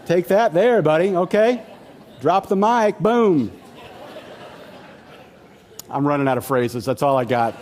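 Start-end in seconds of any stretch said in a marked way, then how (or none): 0.0-3.5 louder taunting gloat; mock gloating. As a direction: rub it in like a winner. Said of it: "you walk away going".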